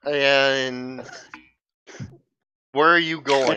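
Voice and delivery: loud call after a runaway; calling after her. Acted. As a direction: shout after someone fleeing. Calling after fleeing girl.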